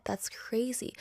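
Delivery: a whispered "that's crazy" in awe; awed whisper. Retold or imitated. Audience member whispers in awe at the singers. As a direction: hush it like you're in the theatre seat. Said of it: "I'm just like".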